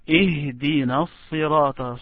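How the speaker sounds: Ihdina sirata with the h clearly sounded; stressed first word. Shown as a demonstration. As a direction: model Ihdina sirata, giving the h its full breath. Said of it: "Now I want to stress".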